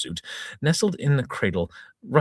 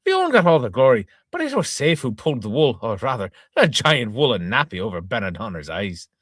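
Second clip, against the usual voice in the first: louder, higher hearty publican; pub owner declaring; 4 semitones higher, 4 dB louder than usual. Acted. Pub owner praising the wife, hearty. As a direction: declare it proudly across the bar. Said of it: "declared local pub owner".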